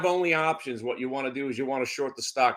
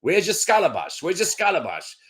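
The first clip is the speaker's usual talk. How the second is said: lightly voiced Italian aunt, higher pitch; a hint of a nagging aunt, pitched up; imitated Italian aunt; 4 semitones higher than usual. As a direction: mimic your aunt asking twice. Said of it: "my aunt would come to my house and invent words like scalabash".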